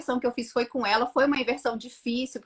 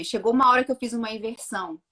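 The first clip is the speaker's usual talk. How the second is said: ordinary talk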